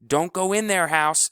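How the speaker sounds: put-on high, loud child's cry of warning; little sister screaming at her brother. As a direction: yell to stop her brother. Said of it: "screamed Honey".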